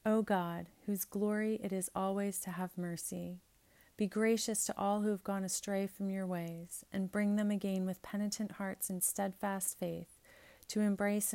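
measured, solemn liturgical prayer; prayer reading. Acted. Priest leading the congregation in collect prayers, solemn. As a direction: pray it aloud in steady cadence.

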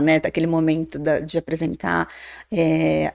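ordinary talk, nothing marked

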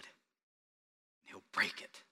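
slow, breathless whisper; hushed whisper. Real, not acted. Preacher to his congregation, whispering the painful moment slowly. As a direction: drop to a whisper and drag each word. Shepherd breaking the sheep's leg.

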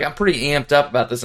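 fast flat deadpan; monotone voice. Retold or imitated. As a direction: rattle it off with no excitement. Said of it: "He's, like, so monotone".

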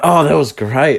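mock brightness hiding anger; sarcastic. Fake cheer while fuming.

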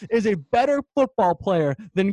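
high, loud exasperated rant; driven crazy. Real, not acted. Host vents about his friend's comparison, driven crazy. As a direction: complain as if at your wits' end. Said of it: "it's really been driving me crazy".

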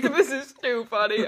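laughing while talking. Real, not acted. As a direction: giggle through the line. Cracking up at voice crack.

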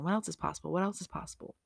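quietly repeated question; gentle musing repeat; soft affirmation. Shown as a demonstration. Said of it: "another one that I say".

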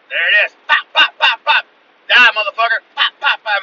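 loud, high yells between popping shots; battle shouting. Retold or imitated. Shooter killing raccoons, shouted lines and gunshot noises. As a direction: holler at the target while firing.

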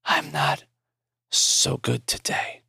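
slow breathy dying whisper; weak whisper. Acted. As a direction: barely voice it, slow and drained. Dying Maury speaks, unvoiced.

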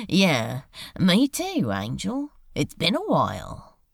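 Crowley laughing, then easy banter; a light laugh, then grin through it; grinning demon. Acted. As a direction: demon greeting his old friend with a laugh. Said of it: "Crowley grinned".

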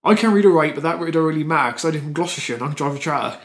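put-on lightly done Gloucestershire yokel accent; a hint of a Gloucestershire farmer. Asked to do his home accent, a mild Gloucestershire accent. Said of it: "your Gloucestershire accent".

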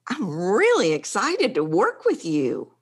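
really excited, bigger level; really excited, going big; fuller expression. Shown as a demonstration. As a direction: let the excitement show on really. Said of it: "but you've not said".

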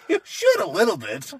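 teasing through a laugh. Real, not acted. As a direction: tease him with a laugh. Teasing friend.

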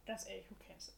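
talking while chewing; words around a mouthful; mouth full. Real, not acted. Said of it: "Ich rede einfach mit vollem Mund".

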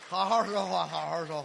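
loud exasperated scold. Acted. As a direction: snap at him to talk properly.

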